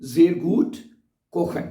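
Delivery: words drawn out one by one for repeating; slow model sentence. Shown as a demonstration. Teacher repeats the cooking sentence for students, slow. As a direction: dictate it slowly to learners. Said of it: "तो आप क्या कहेंगे?".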